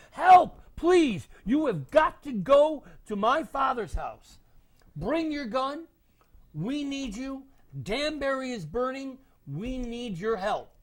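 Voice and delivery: loud, high urgent calls; calling for help. Acted. Sybil pounding on doors, shouting for help. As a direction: shout it at every door. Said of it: "banging on the doors".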